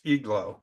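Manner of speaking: IGLOO said as "EEG-loo"; pronounced like E. Shown as a demonstration. Teacher not sure why, IGLOO begins like an E. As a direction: open IGLOO with an E sound. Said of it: "it's pronounced like an E".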